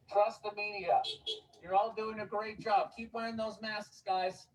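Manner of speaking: syrupy sarcastic reassurance to the crowd; sarcastic preacher soothing the public; mock reassuring. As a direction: lay on the fake sincerity like a friendly official. Continues sarcastic street speech.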